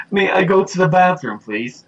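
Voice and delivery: high-pitched imitation of a film character; movie quote. Quoting Dirty Rotten Scoundrels, high put-on voice. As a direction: raise it into a pleading movie-quote voice. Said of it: "the Dirty Rotten Scoundrels thing".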